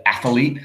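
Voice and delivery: athlete with an extra vowel, ath-uh-lete; mispronounced athlete. Retold or imitated. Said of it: "I can't stand it when people say athlete".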